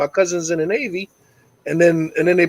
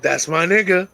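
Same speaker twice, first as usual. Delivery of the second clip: proud dad. Retold or imitated. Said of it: "so I was like".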